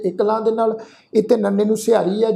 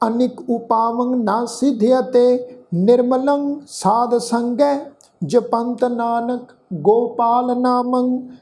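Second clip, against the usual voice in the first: slow Gurbani verse with stretched vowels; measured, sustained sacred reading; scripture recitation; 2 semitones higher, much slower than usual. Shown as a demonstration. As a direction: recite line by line, slowly and steadily. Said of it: "ਆਪਾਂ ਸਮੁੱਚਾ ਪਾਠ ਦੁਬਾਰਾ ਉਚਾਰਨ ਕਰਦੇ ਹਾਂ".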